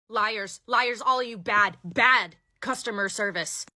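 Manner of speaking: mock-outraged scolding, slowing at the end; hammed-up indignant parting shot; accusing customer. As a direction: stretch out each last accusation.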